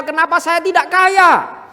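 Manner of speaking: whiny, rising mock complaint; grumbling complaint. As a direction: imitate someone grumbling at unfairness. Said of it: "bukan kamu ngomel".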